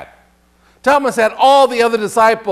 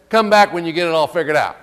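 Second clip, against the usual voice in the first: mock dismissive Jesus; 2 semitones lower, faster than usual. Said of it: "No, that's not what he said".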